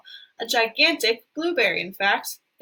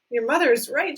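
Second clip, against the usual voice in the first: shouted; 4 semitones higher, 4 dB louder than usual. Acted. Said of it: "shouted Mister Beauregard".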